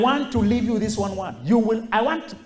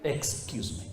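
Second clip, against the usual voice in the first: "Excuse me" whispered, much softer and lower; whispered brush-off; 8 semitones lower, 12 dB quieter than usual. Shown as a demonstration. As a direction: breathe "Excuse me" and turn away. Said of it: "Don't preach to those kind of people".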